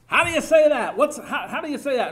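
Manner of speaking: put-on high, loud, pleading child's voice; a small child begging to be taught; eager little child. Eager child tugging mother's apron.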